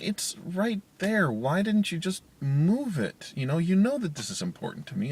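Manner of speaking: exasperated, high and loud, words stretched out; upset parent. Retold or imitated. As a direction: re-enact snapping at a kid in frustration. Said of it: "I got upset, 'cause I'm like".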